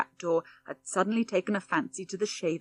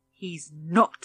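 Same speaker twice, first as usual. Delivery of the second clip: trembling with anger; 4 dB louder than usual. Acted. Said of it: "in a voice trembling with anger".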